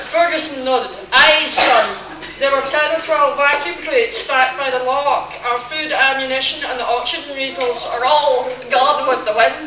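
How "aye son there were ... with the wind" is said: hammed-up Scottish engineer accent; a bad Scottish burr, a touch louder. Reading the engineer's line in a terrible Scottish accent. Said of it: "talks with a terrible accent".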